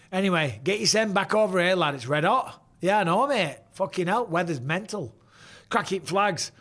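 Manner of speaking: broad northern English accent, pub banter; thick northern English accent. Shown as a demonstration. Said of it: "I start sounding all northern again".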